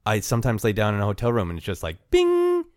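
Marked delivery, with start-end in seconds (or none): 1.5-2.6 sudden high "bing!"; bing sound effect. Retold or imitated. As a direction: pop the word up like an alarm. Wide awake in a hotel bed.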